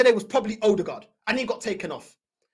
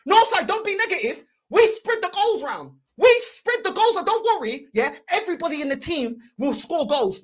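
mocking reassurance; 3 semitones higher than usual. Fans telling him the team will score, mocking reassurance. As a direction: parrot their reassurance in a raised, mocking voice. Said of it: "do you know what these Finnish Porta told me".

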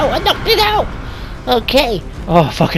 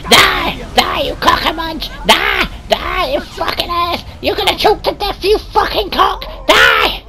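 mock battle shouts; 5 semitones higher than usual. Shouting at enemy to die.

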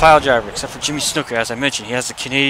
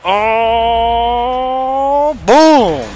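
high, loud hype shout; a high, loud burst of real excitement; excited shout; 11 semitones higher, 6 dB louder than usual. Real, not acted. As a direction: yell it like the move just landed. Hyped at finisher move.

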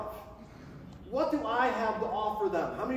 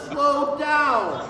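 loud, raised-pitch mock command; hammed-up, drawn-out holler; mock warning shout; 4 semitones higher, 9 dB louder than usual. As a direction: call it out like a sign held up to a speeder. Acts out the critic's warning sign.

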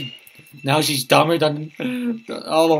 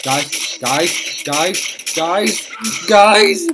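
calling out, building to a shout; 3 semitones higher, 4 dB louder, much slower than usual. Real, not acted. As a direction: call the team louder each time.

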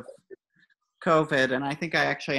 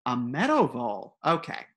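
fox's inner thoughts; 3 semitones higher than usual. Acted. Fox argues with himself over the chicken, a hint of raised worried voice. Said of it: "internal thought here".

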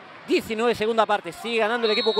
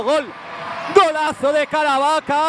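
roaring goal call, higher and louder; breakneck goal commentary; 4 semitones higher, 4 dB louder than usual. Real, not acted. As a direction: belt out the goal.

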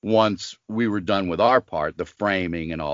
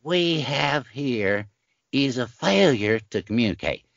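slow drawn-out movie-villain voice, pitched well up; Strother Martin impression; 5 semitones higher than usual. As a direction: drag it out like a menacing warden. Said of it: "that's a good Strother Martin".

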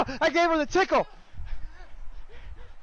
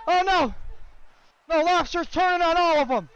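higher, excited play-by-play; excited commentary; 4 semitones higher than usual. Real, not acted. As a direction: call the action excitedly.

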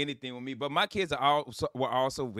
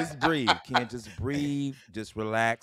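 self-calming mantra; 6 semitones lower than usual. Retold or imitated. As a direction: breathe yourself calm. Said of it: "this is what I'm saying".

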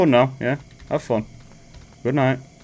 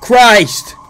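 loud, higher startled cry; startled curse; 6 semitones higher, 6 dB louder than usual. Real, not acted. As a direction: blurt it out in alarm. Startled by game threat.

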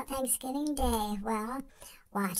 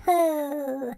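excited hoot; 3 semitones higher, 8 dB louder than usual. Real, not acted. Amazed by giant turkey.

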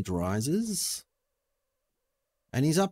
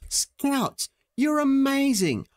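sarcastic praise; much slower than usual. Pretend. Sarcastic praise of useless scouts.

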